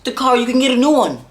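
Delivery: a grandmother shouting comfort down the phone; frantic grandma. Retold or imitated. Grandma reassuring loudly.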